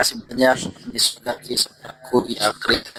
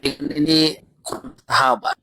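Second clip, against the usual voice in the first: bad connection; 3 semitones higher than usual. Real, not acted. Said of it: "Suaranya putus-putus".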